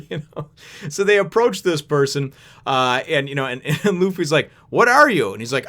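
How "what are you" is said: loud, high, baffled question; mock astonishment. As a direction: imitate someone gawking at an oddity. Captain gapes at a strange man.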